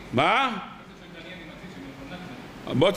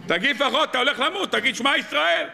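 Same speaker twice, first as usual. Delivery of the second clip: higher, urgent calling out to a comrade; religious soldier urging dying friend, raised call; retold urgent shout; 5 semitones higher than usual. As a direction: plead with him to say the prayer. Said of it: "צעק לו".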